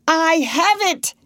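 high, forceful cry of discovery; a mild yell of triumph; triumphant yell. A narrator's reading. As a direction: burst out with the answer. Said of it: "he yelled".

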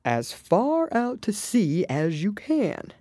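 high, slow calling-out; drawn-out call. A narrator's reading. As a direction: stretch the call out across distance. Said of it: "shouted the Gryphon".

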